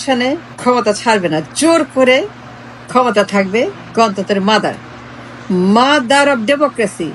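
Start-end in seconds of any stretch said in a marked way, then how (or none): 5.8-7.1 slow, drawn-out sneer at the title; a slow, sarcastic drawl of the nickname; mocking drawl. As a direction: stretch each word out in mockery.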